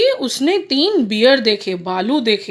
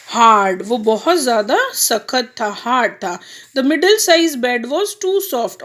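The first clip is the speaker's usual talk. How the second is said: put-on reading to children. A narrator's reading. Reads the story slowly to kids.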